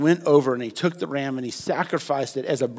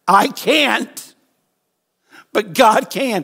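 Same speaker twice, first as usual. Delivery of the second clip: emphatic declaration; 5 semitones higher, 5 dB louder, much slower than usual. Shown as a demonstration. Preacher modelling the line for the congregation, loud and high. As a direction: proclaim it higher and louder. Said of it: "Can we just say that together?".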